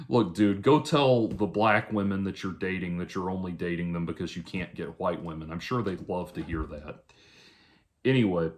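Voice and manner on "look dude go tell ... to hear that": dry sarcastic retort. Real, not acted. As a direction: say it with dry mock sincerity. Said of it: "that was sarcasm".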